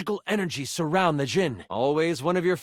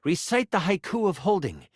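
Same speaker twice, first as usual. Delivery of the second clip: lightly voiced enchanter, firm instructions; stern mentor. Mentor gives apprentice the last step, lightly stern. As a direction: give final orders with a warning.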